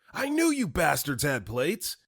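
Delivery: outraged accusation, pitched high; flipping out. Acted. Old customer flips out at the staff over plates, mock outrage. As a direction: accuse them in a mock outburst. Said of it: "flip the F out".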